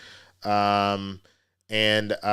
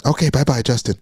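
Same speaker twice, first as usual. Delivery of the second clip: loud bright mock sign-off; mock cheery goodbye; 2 semitones higher, 8 dB louder than usual. Mocking a creepy guy ending his voicemail, loud cheery goodbye. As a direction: chirp a sudden goodbye. Mock late-night voice message.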